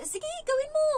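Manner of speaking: very high, loud goading; mock egging-on. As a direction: act out a loud, exaggerated go-ahead. (malakas at matinis na kunwaring panghihikayat)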